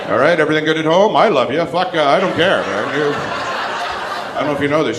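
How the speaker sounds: gushing passenger. Retold or imitated. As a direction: overdo the love for the pilots. Gushing to the pilots at boarding.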